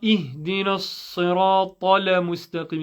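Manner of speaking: "اهدنا الصراط المستقيم" run quickly with a stray vowel after "tal"; hurried wrong version of "اهدنا الصراط المستقيم", saying "tala"; mistaken recitation. Shown as a demonstration. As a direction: demonstrate the slip: "tala mustaqim" inside "اهدنا الصراط المستقيم". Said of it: "it's not".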